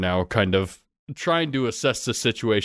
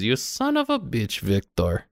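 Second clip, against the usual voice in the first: Nadia's angry curse; 2 semitones higher than usual. Acted. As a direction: spit the insult at him. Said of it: "she says".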